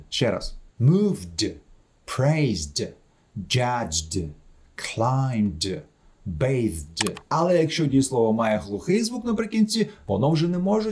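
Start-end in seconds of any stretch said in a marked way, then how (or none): 0.8-7.2 moved, praised, judged, climbed, bathed each ending in voiced D. Shown as a demonstration. Teacher repeats examples after voiced consonants, ringing D on moved, praised, judged, climbed, bathed. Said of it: "по інерції читається дзвінко".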